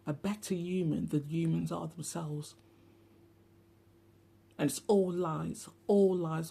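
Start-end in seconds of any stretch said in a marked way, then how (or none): 4.6-6.5 emphatic. Real, not acted. Insisting it is all lies.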